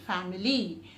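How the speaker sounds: ordinary talk, nothing marked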